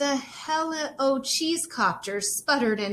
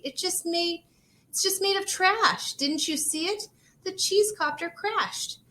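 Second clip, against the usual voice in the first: high, pleading insistence; upset protest; 8 semitones higher than usual. Acted. Rosie pleading with her aunt, high and upset. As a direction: insist it was all trash.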